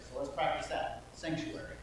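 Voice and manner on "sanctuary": sanctuary whispered softly, no voice. Shown as a demonstration. Storyteller practicing the quiet word with kids. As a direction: breathe out sanctuary in a hush. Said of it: "quietly say the word sanctuary".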